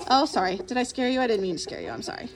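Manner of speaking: soft, hushed apology to a frightened bunny; gently calm a scared animal, fading to almost nothing; soothing. Real, not acted.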